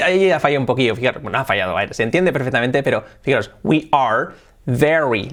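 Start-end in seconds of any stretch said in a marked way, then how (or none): 3.6-5.3 "very" slowly with lip-on-teeth V; slow model of "We are very", V drawn out; clear English V. Shown as a demonstration. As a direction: stress the V in "very". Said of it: "la V".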